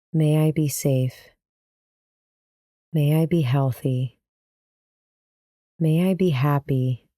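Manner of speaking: gently measured phrases with long pauses between; slow, gentle repetition. Shown as a demonstration. Guide modeling loving kindness phrases for listeners to repeat, slow and gentle. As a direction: let each wish settle before the next. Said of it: "Repeat the phrases slowly and gently".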